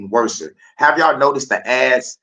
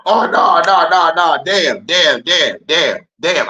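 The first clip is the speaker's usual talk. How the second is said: louder, higher run of no no no then damn damn; oops realization; 4 semitones higher, 4 dB louder, slower than usual. Real, not acted. Realizing he mixed up the two Johnsons, loud oops. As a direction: catch your own mistake out loud.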